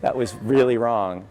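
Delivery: laughing apology. Real, not acted. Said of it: "Yeah, sorry".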